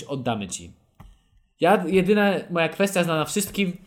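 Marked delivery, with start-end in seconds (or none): 0.0-0.7 mocking own line. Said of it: "nigdy w życiu bym nie powiedział".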